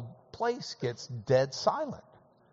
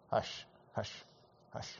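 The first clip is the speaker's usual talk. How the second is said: soft whispered hush, hush, hush; 6 semitones lower, 11 dB quieter than usual. Shown as a demonstration. Preacher showing how hush quiets people, whispering. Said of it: "a quick and kinda quiet way".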